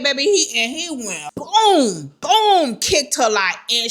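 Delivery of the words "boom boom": drawn-out boom. Retold or imitated. Imitates the kick landing.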